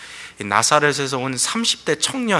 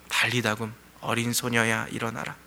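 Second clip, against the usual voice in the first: voice of Jesus; 2 semitones lower, 7 dB quieter than usual. Acted. Preacher as Jesus calling the dead girl to rise, hushed. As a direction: gently voice Jesus' command, very quietly. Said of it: "예수님께서 지금 말씀하시는 이 음성을 들으십시오".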